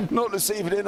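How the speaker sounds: squeaky, high toy voice, laughing. Real, not acted. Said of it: "I sound like a squeaky toy out of Toy Story".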